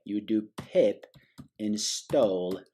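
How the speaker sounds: hammed British accent, measured and deliberate. Shown as a demonstration. Tutor dictating a command to viewers, mock British accent. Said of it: "in a British accent as well".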